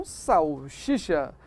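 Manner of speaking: "salsicha" said as sal-SHEE-sha; slowly shown mistake, "salsicha" with SH in both last syllables; wrong pronunciation. Shown as a demonstration. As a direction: double the SH sound in "salsicha". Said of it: "e não salsicha".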